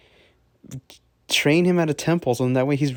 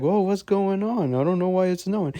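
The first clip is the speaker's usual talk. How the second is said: lightly acted, raised puzzled voice; mock bewilderment; 4 semitones higher than usual. Everyone reacting to sudden snow at night, mock bewilderment.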